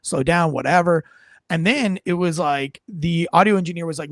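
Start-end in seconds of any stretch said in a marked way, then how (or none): 0.0-0.5 imitating a listless, monotone read; mumbling to yourself in a dull monotone; reedy monotone. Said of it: "just reedy, monotone".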